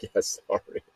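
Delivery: whispered, sheepish apology. Retold or imitated. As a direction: mumble it like a scolded kid.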